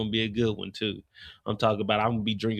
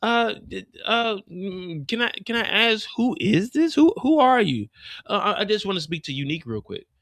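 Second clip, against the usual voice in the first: rising high outrage; 7 semitones higher than usual. Acted. The lady realises who Rock is, high and rising. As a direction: build to shrill confrontation. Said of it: "lady confronts Rock".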